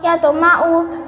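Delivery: "yatma'u" with a bounced t; echoing t inside "yatma'u"; qalqalah sughra. Shown as a demonstration. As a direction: let the t of "yatma'u" rebound before m. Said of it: "harus dipatulkan suaranya".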